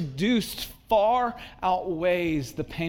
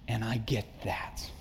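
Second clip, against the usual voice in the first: quiet aside; 5 semitones lower, 5 dB quieter than usual. Real, not acted. Preacher's quiet empathetic aside.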